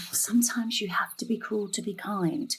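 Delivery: a sigh, then an unvoiced whisper. Mother excusing a cancelled lesson to her daughter, sighed whisper. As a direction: mutter it under a sigh.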